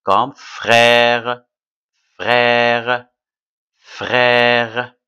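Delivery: "frère" held long on a wide-open è; open-mouthed è. Shown as a demonstration. Teacher gives an example word, open held è in "frère". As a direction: stretch the vowel of "frère" evenly, mouth open. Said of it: "avec la bouche ouverte".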